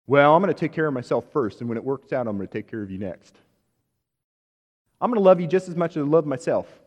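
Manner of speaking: quick mock Jesus with a Southern accent. Preacher voicing a selfish Jesus to the congregation, Southern accent. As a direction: put on a loud, hurried Southern accent. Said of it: "Jesus has a southern accent in that".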